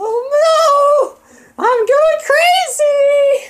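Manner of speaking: squeaky-high put-on voice, stretched very slow. Recalling the voice she used in an earlier video: a really high-pitched voice. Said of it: "I had this really high-pitched voice".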